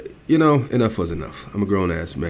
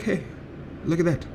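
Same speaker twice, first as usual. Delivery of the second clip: mock pointed call-out; 9 semitones higher than usual. Calling out staff over purse.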